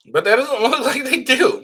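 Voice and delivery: laughing through the words, high; amused scoffing laugh mid-sentence. Real, not acted. Scoffing at weak prosecution case.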